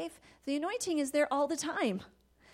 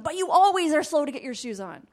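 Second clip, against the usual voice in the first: louder blaming jab; accusing aside; 4 semitones higher, 9 dB louder, faster than usual. Shown as a demonstration. Mother to son, a loud blaming add-on. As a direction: tack on an accusation. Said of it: "That conversation should be for another day".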